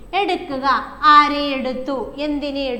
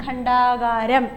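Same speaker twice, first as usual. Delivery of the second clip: slow dictation, softer; much slower than usual. Shown as a demonstration. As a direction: repeat it gently. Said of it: "dictation of word". (പതുക്കെ ആവർത്തനം)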